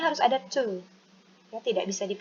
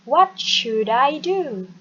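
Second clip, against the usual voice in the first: slow, louder, clear falling question; slow model reading; 3 semitones higher, 7 dB louder, slower than usual. Shown as a demonstration. Teacher modelling for students to repeat, slow. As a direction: drill it slowly for the class. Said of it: "listen and repeat after me".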